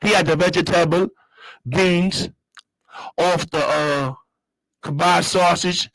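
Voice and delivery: playful put-on Jamaican accent; light mock-Jamaican lilt with a break before the last word. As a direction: say it in a Jamaican voice, drawing out the words. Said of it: "I gotta say it in my Jamaican voice".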